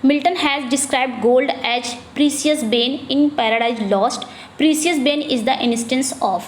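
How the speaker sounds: slow, careful reading of an exam question; slow dictation read. Acted. Teacher reading a quiz question slowly to the class. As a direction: read each word out slowly for students.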